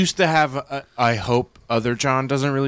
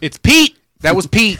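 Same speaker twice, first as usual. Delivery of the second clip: shouting it out, pitch way up; loud eureka, much higher; excited; 6 semitones higher, 10 dB louder than usual. Real, not acted. Excited realization about Pete.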